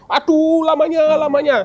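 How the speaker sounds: high, loud whining complaint; impatient whine.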